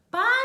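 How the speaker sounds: папір with a long, high, drawn-out "і"; stretched stressed vowel. Shown as a demonstration. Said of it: "Який звук ми тягнемо голосом".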